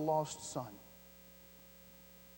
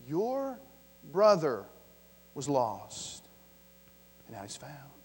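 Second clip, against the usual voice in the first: slow, low, fading to a near hush; hushed emphasis; 3 semitones lower, 3 dB louder, slower than usual. Shown as a demonstration. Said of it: "pastor repeats the phrase for effect".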